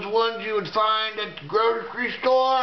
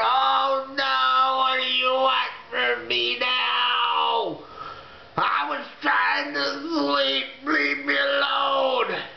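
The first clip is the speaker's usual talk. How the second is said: frightened shout; 5 semitones higher, slower than usual. Retold or imitated. Protests to the aliens.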